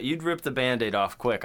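ordinary delivery

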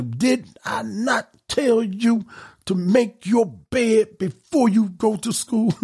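high, slow scolding mother voice. Retold or imitated. Mother scolding kids in story.

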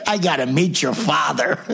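retold line broken up by laughter; laughing through the quote. Dad retelling the teacher's words, laughing. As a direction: laugh while quoting the amazed teacher.

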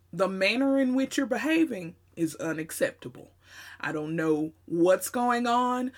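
proper, measured, buttoned-up phrasing; formal register. Shown as a demonstration. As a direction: address a stranger politely and correctly. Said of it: "would sound more like".

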